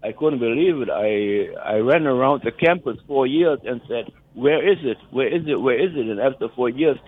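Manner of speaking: ordinary talk, nothing marked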